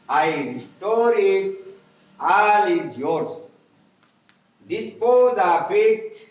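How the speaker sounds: slow, measured recital of a prayer, each phrase set apart; slow prayer reading. Acted. Teacher reciting the English prayer to pupils, slow and measured. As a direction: read the prayer aloud slowly and devoutly for the class.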